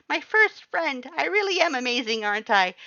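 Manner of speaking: high, loud, fast bragging joy; proud excited Papyrus. A narrator's reading. Papyrus hugs the human, loud high proud joy. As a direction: crow about your first friend.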